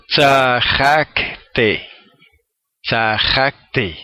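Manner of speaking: Tzajakte said twice, both falling; Hebrew word repeated. Shown as a demonstration. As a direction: repeat Tzajakte slowly for learners. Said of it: "Entonces él dice".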